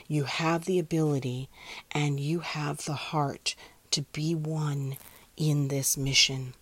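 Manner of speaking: measured meditation affirmations in spaced phrases; unhurried, incantatory meditation delivery; guided meditation. Acted. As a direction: guide listeners with steady, deliberate assurance. Here is your meditation.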